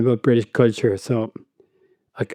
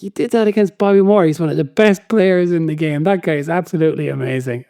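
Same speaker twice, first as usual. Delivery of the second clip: higher-pitched, emphatic manager's praise; excited praise; 4 semitones higher than usual. Retold or imitated. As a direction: act out an impressed manager bigging up his player. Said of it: "Shankly's like".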